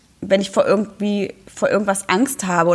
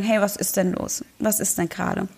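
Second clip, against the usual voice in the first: loving comfort; 5 dB quieter than usual. Retold or imitated. Mother picking up the crying child, soft tender voice. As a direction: soothe a child held in your arms. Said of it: "liebevoll mit sich".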